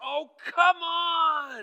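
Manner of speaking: very high, very loud, shrill top-of-lungs yell. In a sermon, describing his frustrated four-year-old daughter, imitating her yelling at the top of her lungs. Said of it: "at the top of her lungs and with all of her emotion".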